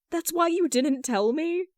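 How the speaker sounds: a touch of wounded surprise on the phone; hurt disbelief. Acted. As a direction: push back, stung and incredulous. Jason confronting Kyle on phone.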